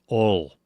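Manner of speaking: ol said as a flat single vowel; oil squashed to "ol"; how some people say oil. Shown as a demonstration. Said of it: "say it very pronounced".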